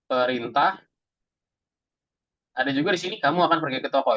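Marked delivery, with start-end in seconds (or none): 3.2-4.2 neutral statement, "akan" lightly stressed; just state it matter-of-factly; plain statement. Shown as a demonstration. Teacher demos a plain statement to students, neutral. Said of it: "ini kayak statement aja gitu ya".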